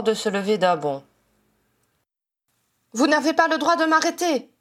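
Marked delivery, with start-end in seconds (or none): 2.9-4.5 higher-pitched, agitated protest; crying out. A narrator's reading. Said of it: "cria-t-elle". (protestation criée, voix plus aiguë)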